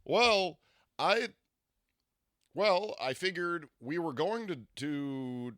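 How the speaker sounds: high put-on puppet voice, loud at first; Muppet-like imitation. Imitating her date explaining himself, hammed-up Muppet voice. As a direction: launch in big, then slow into his careful cadence. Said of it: "he sounded like a Muppet".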